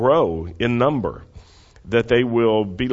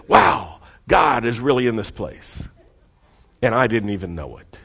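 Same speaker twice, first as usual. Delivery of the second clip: awed wow. Retold or imitated. Jacob's awed reaction, voiced.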